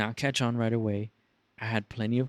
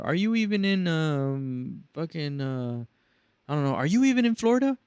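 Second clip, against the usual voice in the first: mock furious caller; 5 semitones higher than usual. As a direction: blow up at the agent.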